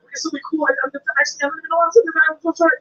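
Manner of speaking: flustered, babbling apology; over-apologize in a rising fluster; frazzled, tripping over the words. Retold or imitated. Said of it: "I'm frazzled".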